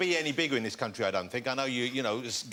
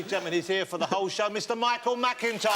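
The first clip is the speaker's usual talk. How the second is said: host's introduction; 5 semitones higher than usual. Acted. Host introducing the guest.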